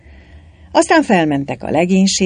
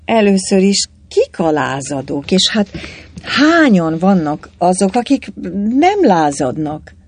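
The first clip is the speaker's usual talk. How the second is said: halting question in a strained higher voice; timid, agonised; 5 semitones higher, 4 dB louder than usual. A narrator's reading. Hlavács asking who the rebels are, timid and in agony. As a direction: stumble painfully through it, pausing between phrases. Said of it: "jegyezte meg bátortalanul nagy kínban".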